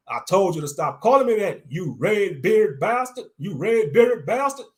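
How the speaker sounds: fast, furious tirade; ranting. Acted. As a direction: fire it at him, furious. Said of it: "I ran it".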